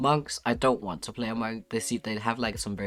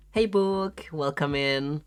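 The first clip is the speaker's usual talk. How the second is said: excited greeting; 6 semitones higher, 3 dB louder, slower than usual. Real, not acted. Calling out to a new viewer.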